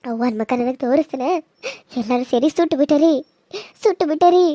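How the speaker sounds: tearful, bitter accusation; ದುಃಖದ ಕೋಪ; bitter grief. Acted. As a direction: vow revenge through tears. Grieving daughter accuses the family.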